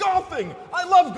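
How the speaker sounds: high, thrilled cry of delight; light up at the word; excited shout. Acted. Spirit excited by golf.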